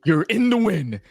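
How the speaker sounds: lightly put-on African accent, dismissive; mock African accent. Retelling the promo to the co-host, mild African accent. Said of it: "My apologies if my accent is".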